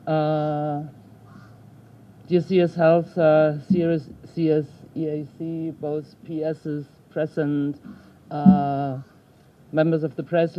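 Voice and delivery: muffled speech through a face mask; speaking through mask. Real, not acted. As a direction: voice dampened by a mask. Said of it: "can hear me through, through the mask".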